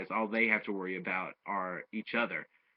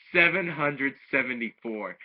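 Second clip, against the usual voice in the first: louder, higher "Seven hundred seventy-four" in disbelief; amazed repeat; 4 semitones higher, 5 dB louder than usual. Real, not acted. Reviewer repeats Android eighteen's huge score, amazed. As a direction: say the score again as if you can't believe it.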